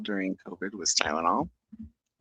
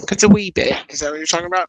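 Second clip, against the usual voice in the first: a hint of Irish, higher and louder; mock Irish accent; 10 semitones higher, 12 dB louder, faster than usual. Laughing to chat about her Irish-sounding typing, mock Irish accent. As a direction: toss off a light Irish "wee bit". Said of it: "I even type in an Irish accent".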